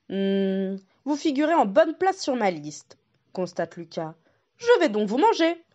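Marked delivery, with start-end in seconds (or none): 0.1-3.0 lightly voiced wolf checking his list; a hint of a hungry wolf. The wolf tells the goat she is listed, lightly voiced. 4.6-5.6 higher, louder wolf announcing dinner; a mock menacing wolf; wolf threat. The wolf tells the goat he will eat her, mock threat.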